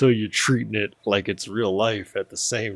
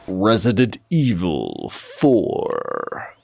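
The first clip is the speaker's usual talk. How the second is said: announcer voice; much slower than usual. Shown as a demonstration. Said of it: "just let me do my voices".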